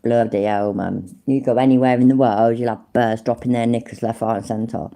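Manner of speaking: quoting an Irish mate in a mild Irish lilt; Irish accent. Retold or imitated. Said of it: "Irish accent".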